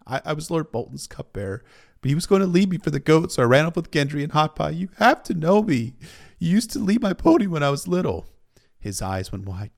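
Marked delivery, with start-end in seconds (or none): 0.1-8.3 higher, urgent, upset plea; tearful pleading. A narrator's reading. Arya begging Harwin to know her, tearfully pleading. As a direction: plead to be remembered, voice raised.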